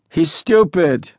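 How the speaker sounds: slow contempt. A narrator's reading. Unlaughing boy dismisses newcomer.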